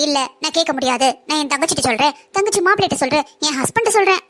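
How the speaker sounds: lightly hammed-up parody of her protests; mocking imitation. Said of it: "அப்படின்னு வாலாட்டினீங்கன்னு".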